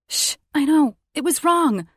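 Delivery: put-on high, loud guilty baby talk; soothing the dog. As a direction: coo to the whining dog. Hushing the dog.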